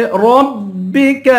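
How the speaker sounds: رَبِّكَ with heavy ر and light ك; slow رَبِّكَ, thick start and thin ending; thin kaf. Shown as a demonstration. Teacher showing letter weight, رَبِّكَ with thin ك. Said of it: "کاف کو باریک کریں گے".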